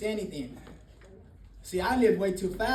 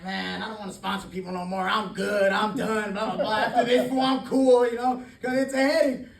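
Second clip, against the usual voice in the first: rising into a loud, exasperated rant; fed-up rant; 6 dB louder than usual. Retold or imitated. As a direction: vent like you've had enough, getting louder. Retold rant to his sponsor.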